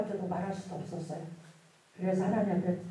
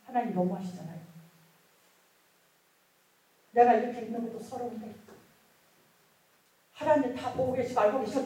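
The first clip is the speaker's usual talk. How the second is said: mildly angry, hurt complaint; retold aggrieved protest; 2 semitones higher, 3 dB louder than usual. Worshipper complains that God knows everything, retold aggrieved protest. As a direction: re-enact pleading indignantly with God. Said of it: "분노의 눈물을 흘리기 시작했어요".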